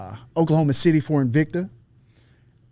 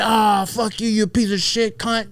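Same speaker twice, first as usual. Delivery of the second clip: higher-pitched retort of a riled rival; retold outburst, raised pitch; mock angry cursing; 5 semitones higher, slower than usual. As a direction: imitate an insulted fighter cursing back. Retelling the opponent's cursing reply.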